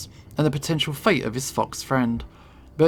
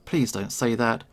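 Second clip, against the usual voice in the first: curt; 3 semitones lower, 4 dB quieter than usual. Acted. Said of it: "She responds curtly".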